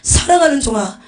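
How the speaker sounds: loud, high reproachful cry; divine rebuke. Acted. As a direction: rebuke a servant as the Lord would. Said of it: "예수님이 책망하시더라고요".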